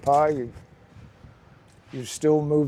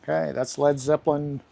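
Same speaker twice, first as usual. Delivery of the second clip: talking with a slight lisp. Real, not acted. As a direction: lisp from whitening strips on teeth. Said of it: "sounds like I've got a little lisp".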